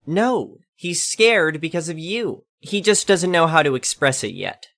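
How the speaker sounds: lightly voiced suspicious old lady; accusing old lady. Lady insisting.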